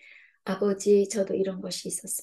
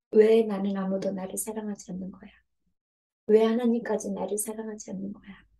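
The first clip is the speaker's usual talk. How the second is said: anguished outcry; 5 dB louder than usual. Acted. Voicing an unloved heart crying out.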